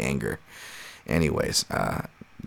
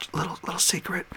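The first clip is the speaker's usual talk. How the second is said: high, breathless stage whisper; playful whisper; 13 semitones higher, 7 dB quieter than usual. Pretend. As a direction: let them in on a secret. Confiding his trick to viewers.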